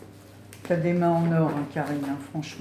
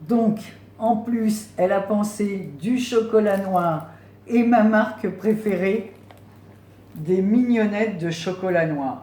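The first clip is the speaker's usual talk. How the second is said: higher, louder, gushing over the chocolate; louder delighted gush over dark chocolate; thrilled; 4 semitones higher, 7 dB louder than usual. Real, not acted. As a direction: squeal with delight at the gift. Thrilled at her favourite chocolate.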